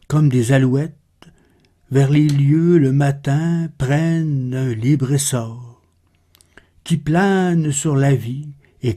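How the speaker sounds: measured, slightly subdued poem reading; poetry recitation. Acted. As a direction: recite the verse with pauses between phrases. Reads Baudelaire's poem aloud.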